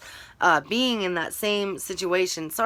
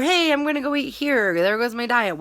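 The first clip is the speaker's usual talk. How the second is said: cheery post voice; 6 semitones higher than usual. Retold or imitated. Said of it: "random business".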